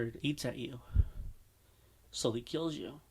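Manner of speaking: a little shaky voice; slightly shaky, uneasy voice. Real, not acted. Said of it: "my voice kinda sounds, like, a little shaky".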